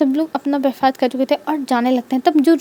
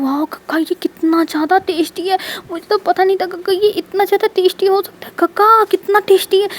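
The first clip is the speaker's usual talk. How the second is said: delighted gush; 5 semitones higher than usual. Acted. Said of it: "उसकी आँखें तो चमक जाती हैं".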